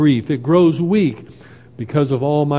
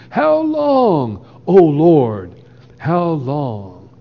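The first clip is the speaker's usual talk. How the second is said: lament; much slower than usual. Acted. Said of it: "the language of lamentation".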